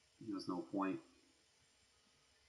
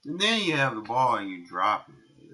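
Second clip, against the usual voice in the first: raging gamer; 4 semitones higher, 12 dB louder than usual. Real, not acted. Gamer complaining after the drop.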